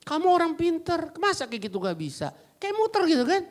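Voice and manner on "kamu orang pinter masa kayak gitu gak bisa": gentle roundabout. Retold or imitated. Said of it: "kita mesti muter dikit".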